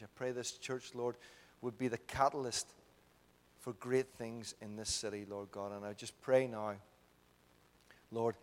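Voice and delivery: earnest, steady public prayer. Real, not acted. Preacher praying aloud for the church, earnest prayer. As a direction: pour out requests in rolling, repeated phrases.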